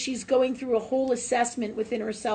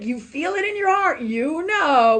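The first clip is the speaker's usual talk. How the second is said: much higher, louder, sing-song coaxing; high coaxing dog-talk voice; 8 semitones higher, 7 dB louder than usual. Retold or imitated. To her dog acting up, high coaxing voice. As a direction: coo it up high like talking to a pet. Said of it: "I'd be like".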